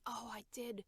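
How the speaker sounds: unvoiced, musing to herself; a sudden memory breathed out in a whisper; whispered thought. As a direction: whisper as an idea strikes. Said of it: "be like".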